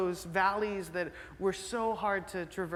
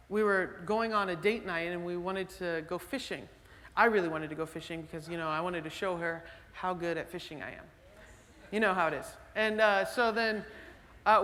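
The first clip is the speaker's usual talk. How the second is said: ordinary talk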